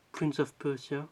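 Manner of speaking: put-on title said with an English accent. Reading a film title aloud in a light English accent. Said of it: "t'as vu mon accent?".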